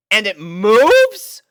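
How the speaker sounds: high, slow startled question; alarmed. A narrator's reading. Rainbow seeing the sack move, high, loud and alarmed. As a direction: catch your breath in alarm. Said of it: "alarmed to see the bag".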